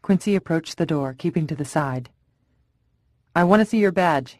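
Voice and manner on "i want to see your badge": calling out. Acted. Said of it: "he called out".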